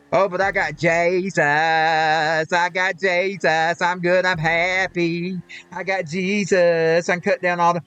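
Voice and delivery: slow, lightly voiced smug believer; a hint of self-satisfied piety; mock smug believer. Mocking hypocrites who hurt people yet say they have Jesus, lightly voiced. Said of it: "that's what they think".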